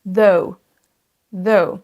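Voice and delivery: THOUGH with a voiced TH, then O gliding into OU; diphtongue. Shown as a demonstration. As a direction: say THOUGH with a double O-OU sound. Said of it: "un son O et un son OU". (THOUGH, son O puis OU)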